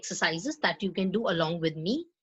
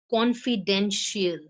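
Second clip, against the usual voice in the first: Confidential said slowly, CON and DEN stressed; slower than usual. Shown as a demonstration. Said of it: "here the stress is on con and den".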